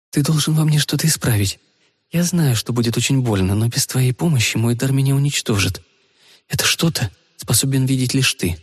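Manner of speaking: a hint of an urgent young woman; lightly voiced young woman. Rita's telepathic plea.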